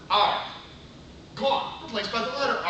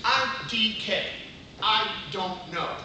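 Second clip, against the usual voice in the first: slow side-by-side; slower than usual. Shown as a demonstration. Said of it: "where's the savings?".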